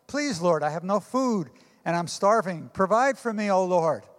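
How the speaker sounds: put-on a hungry old woman crying up to heaven; pleading shout. Old lady begging the Lord for food, pleading shout.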